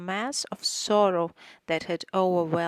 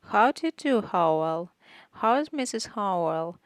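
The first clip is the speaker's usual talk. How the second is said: patronizing; 2 semitones higher, 5 dB louder than usual. Acted. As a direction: talk down to the servants cheerfully. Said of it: "speaking in a patronizing voice".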